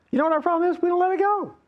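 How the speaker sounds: high, urgent preacher's cry; preaching fervor. Real, not acted. Pastor pressing the congregation on their problem, fervent high call. Preaching climax, sudden pitch jump.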